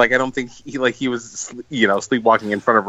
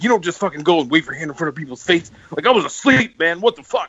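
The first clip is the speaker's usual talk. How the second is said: mock upset rant; 4 semitones higher than usual. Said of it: "really upset".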